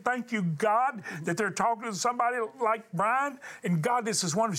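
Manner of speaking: mildly excited imitation of Beth Moore; retold excitement. Host retelling Beth Moore's thankful prayer to the studio, mildly excited. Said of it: "I got so excited".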